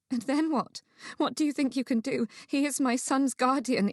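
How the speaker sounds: high, anxious challenge; challenging. Acted. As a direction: demand answers as a worried mother. Distraught mother challenges his promise.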